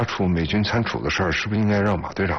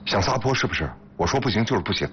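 higher-pitched, firm refusal; stern rebuke; 5 semitones higher than usual. Acted. Husband forbidding his wife, stern. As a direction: put your foot down.

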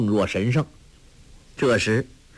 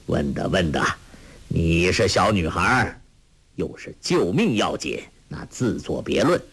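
a lightly voiced old monk, lower and calm; gentle old monk; 6 semitones lower than usual. Old monk indulging a young girl, lightly voiced lower. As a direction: speak as a kindly old master, low.

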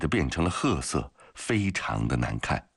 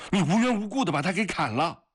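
high-pitched, strained accusation; outraged shouting; faster than usual. Acted. Grigory confronts the man who killed a prisoner, shouting. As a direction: cry out in outrage at the killing. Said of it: "突然大声地喊了起来".

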